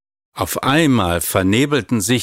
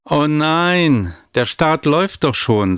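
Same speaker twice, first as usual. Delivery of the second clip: put-on a worried boy's protest; dismayed child; 6 semitones higher than usual. A narrator's reading. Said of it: "sagte Laurin".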